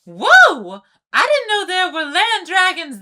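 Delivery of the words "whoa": amazed whoa. Acted. Sea creature amazed by land dragons.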